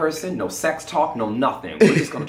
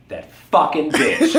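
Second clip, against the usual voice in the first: laughing curse; 3 dB louder than usual. Retold or imitated. Crystal cursing, laughing.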